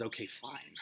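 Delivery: very soft, reluctant give-in; hushed, defeated agreement; sighing resignation. Acted. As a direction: sigh it out as you concede. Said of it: "he kinda sighs and he says".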